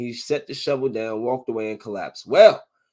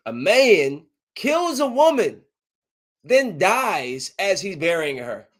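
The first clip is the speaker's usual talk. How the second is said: slow, high, louder headline announcer; dramatic headline read; 5 semitones higher, 4 dB louder, slower than usual. Real, not acted. Podcaster reading a crazy story aloud, slow dramatic. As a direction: sell the headline slowly for shock.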